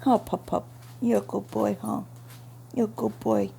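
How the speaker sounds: cheerful voice for the dog; pet talk. Real, not acted. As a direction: coo at the puppy. Talking to dog.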